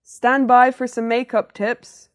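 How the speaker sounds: put-on loud, high show-host call to the girls; host opener. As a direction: belt it out like a TV host opening.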